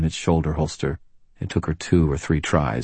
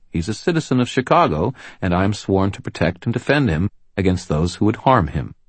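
raised, commanding lawwoman voice; firm policewoman; 4 semitones higher, 3 dB louder than usual. Acted. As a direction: stand your ground, loud and firm. Murphy defends with authority.

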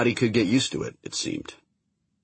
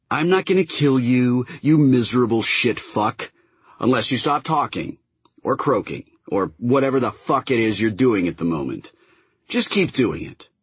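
angry space captain; 4 semitones higher than usual. Acted. Kiva voiced threatening the prisoner.

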